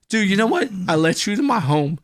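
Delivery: high, loud hurt dude voice; mock wounded friend. Hurt friend complaining about his home, high and aggrieved. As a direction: whine about being disrespected.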